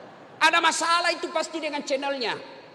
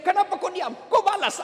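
higher mock-indignant demand; scolding wife; 4 semitones higher than usual. Wife demanding her silent husband answer back, mock scolding. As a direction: play a wife provoked by silence.

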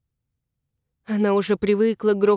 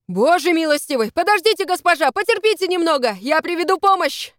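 calling down; 6 semitones higher, 3 dB louder than usual. Acted. Rescuer calls down to her.

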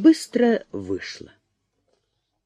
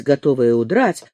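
plain reading voice

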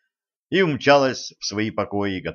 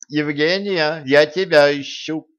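calling out; 6 semitones higher, 4 dB louder than usual. Acted. Tsarevna calls out across yard.

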